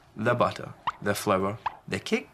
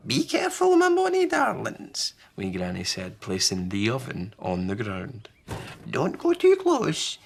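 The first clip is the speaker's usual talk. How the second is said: warning call. Acted. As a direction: call out to keep them back. Granny warns children.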